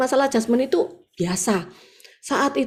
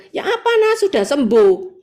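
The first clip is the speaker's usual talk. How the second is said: high, louder voice of a friend checking in; friend asking; 4 semitones higher, 5 dB louder than usual. Retold or imitated. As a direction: ask brightly like a caring friend. Bu Ragel bertanya lewat WA. (Bu Ragel bertanya dengan suara tinggi dan keras)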